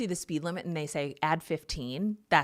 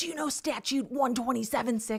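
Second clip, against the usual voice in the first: mock high, screaming cop voice; 8 semitones higher than usual. A woman retells what a man screamed at her after she pulled over, imitating him screaming. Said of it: "he was screaming like".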